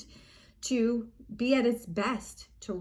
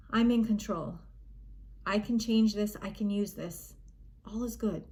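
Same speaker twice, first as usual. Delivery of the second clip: measured, reassuring self-talk with long pauses; calm self-talk. Shown as a demonstration. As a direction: settle yourself, one short statement at a time. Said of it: "you start to just calm it down".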